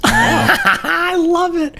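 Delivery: high delighted laugh, slow. Real, not acted. Streamer laughing at the guest's joke.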